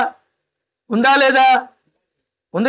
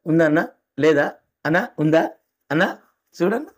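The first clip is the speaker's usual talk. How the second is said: pleading voter; 7 semitones lower than usual. Acted. Voter pleading with poll officer. (Voter అధికారిని మెల్లగా బతిమాలుతూ)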